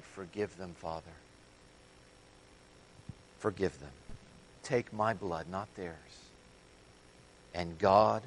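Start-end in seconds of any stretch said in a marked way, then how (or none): 0.0-6.0 much softer, a quiet dying plea; hushed tender plea. Acted. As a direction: breathe the words of forgiveness gently. Quoting Jesus forgiving from the cross.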